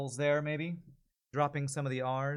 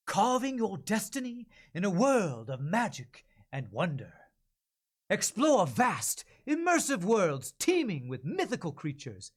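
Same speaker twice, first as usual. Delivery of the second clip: eager trailer voice with some air; just back from an adventure, pitching it; lightly breathless promo; breathless heroic ad read; 4 semitones higher, slower than usual. Acted. Ad read after breathless note.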